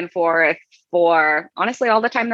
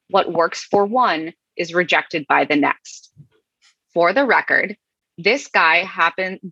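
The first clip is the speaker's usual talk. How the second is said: dramatic reading of the troll. Acted. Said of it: "And I should play him".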